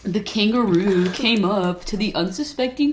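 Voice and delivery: a light hint of a TV narrator; mock documentary narrator. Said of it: "You should speak like that".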